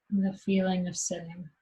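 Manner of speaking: unhurried meditation guide, long pauses between phrases; guided meditation. Acted. Teacher guiding meditators to rest in what's happening, guided meditation. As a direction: guide them gently into noticing, leaving long silences.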